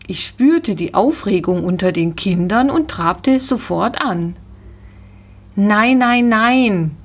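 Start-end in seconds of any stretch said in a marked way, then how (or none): 5.6-6.9 protesting no. A narrator's reading. Girl on horseback protests as horse trots off, loud protest. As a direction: stop the horse with a pleading no. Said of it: "protestierte das Mädchen".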